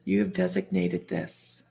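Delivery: slow, soft and measured; lightly voiced calm pronouncement; calm otherworldly voice. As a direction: imitate a serene voice from outside. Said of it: "I heard this voice say".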